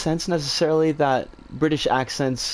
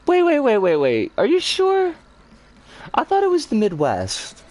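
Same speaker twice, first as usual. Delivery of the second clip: louder, higher, rapid "wait" to stop the chat; startled objection; 8 semitones higher, 3 dB louder than usual. Real, not acted. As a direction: caught off guard, cut in urgently. Chat corrects her; she objects.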